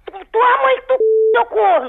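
stammering high-pitched insult; furious. Real, not acted. Woman insulting the teasing caller back, furious. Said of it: "lagartixa tá braba demais".

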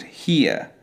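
here ending in a soft, unstressed uh. Shown as a demonstration. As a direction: let here fade into a small schwa, no R. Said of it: "we want a more quiet sound".

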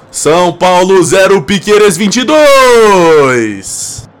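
goal celebration call. Real, not acted.

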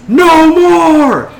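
high, full-throated mob chant; crowd yelling back. Acted. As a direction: roar it back as the whole crowd. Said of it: "the crowd yells".

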